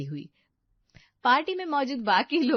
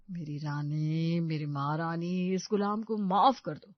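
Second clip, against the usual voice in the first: coaxing apology; 3 semitones lower than usual. Acted. Boyfriend coaxes with mock-servile apology.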